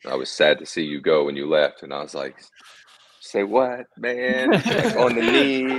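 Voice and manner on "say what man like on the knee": high, louder surprised laughing say what; playfully stunned, laughing it off; a laughing, high-pitched who me; mock disbelief. Mock disbelief at teammate's compliment.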